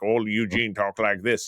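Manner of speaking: slow, exaggerated hillbilly Southern accent; wacky Southern accent. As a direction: ham up a goofy Southern drawl. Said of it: "not doing a wacky accent".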